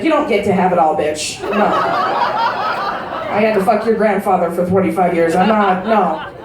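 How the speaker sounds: lightly voiced tough old lady; grandmother voice. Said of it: "She was like".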